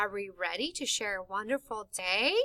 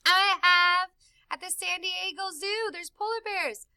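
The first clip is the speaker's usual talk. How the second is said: little bear voice; 7 semitones higher, 3 dB louder than usual. Pretend. Puppet bear answers question.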